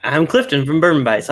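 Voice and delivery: slight accidental Southern accent. Real, not acted. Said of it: "I had a weird Southern accent there".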